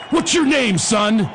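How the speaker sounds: lightly acted coach confronting a player; gruff-talking coach. Coach grabs him by the helmet.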